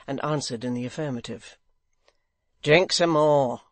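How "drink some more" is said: urging blind man. Acted. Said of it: "said the blind man".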